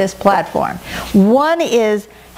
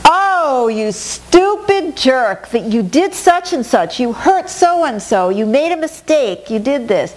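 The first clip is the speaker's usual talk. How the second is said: harsh inner critic; slower than usual. Retold or imitated. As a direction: berate yourself like a mocking inner voice. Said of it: "the ego is beating me up".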